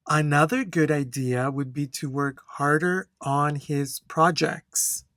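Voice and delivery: steady, clear exam-answer reading with good flow; teacher demonstrating fluent intonation to the class; model answer read aloud. Shown as a demonstration. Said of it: "I'm gonna read this answer".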